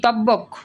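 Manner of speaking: তব্বক with the ব sounded as a doubled b; wrong spoken form. Shown as a demonstration. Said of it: "তব্বক বলি নাকি বলি তক". (তব্বক, ব জোর দিয়ে উচ্চারিত)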